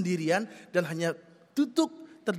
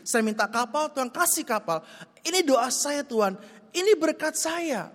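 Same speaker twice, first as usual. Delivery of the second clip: indignant self-justification; 6 semitones higher than usual. Acted. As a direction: insist it's all yours, wound up and indignant. Man boastfully defends himself to God.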